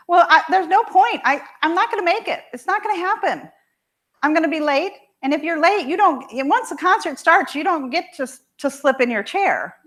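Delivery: high, loud, fast tearful daughter; distraught daughter. Retold or imitated. Crying daughter insisting she won't make it, high and tearful. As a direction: rush it out like a teen close to tears. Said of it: "And she starts crying".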